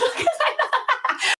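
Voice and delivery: squealing high laugh; high giggle. Real, not acted. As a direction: burst into a giggle. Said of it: "That shit funny?".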